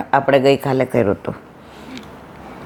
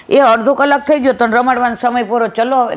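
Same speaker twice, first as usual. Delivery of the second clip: higher, sing-song imitation of a parent ending playtime; mock mother's voice; 6 semitones higher than usual. Mother tells the baby playtime is over, mock sing-song. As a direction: playfully act the mother who times her baby.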